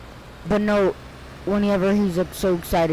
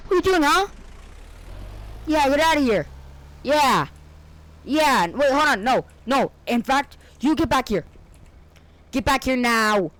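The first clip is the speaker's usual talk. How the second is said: bossy character voice; 7 semitones higher than usual. Acted. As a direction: play an outraged guard barking orders. Acts a gruff character confronting.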